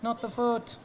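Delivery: hammed-up alarm as the toe snaps; retold panic. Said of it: "And I went".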